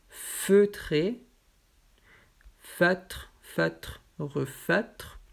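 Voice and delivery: "feutre" said twice with a clear eu; word list drill. Shown as a demonstration. Teacher reading the eu word list to students. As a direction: spell out "feutre" carefully, pausing between words. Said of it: "motif E U".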